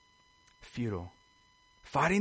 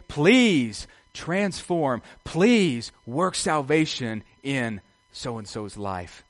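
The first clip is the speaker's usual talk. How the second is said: slow pleading prayer; much slower than usual. Pretend. Prays on knees before God.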